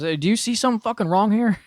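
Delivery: high mocking challenge from the instructor; drill instructor. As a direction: needle the trainee like a drill instructor. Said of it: "M T I goes".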